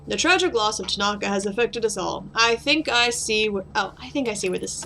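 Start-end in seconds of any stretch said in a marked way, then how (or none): 0.1-2.3 rough voice. Acted. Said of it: "let's do it in a rough voice".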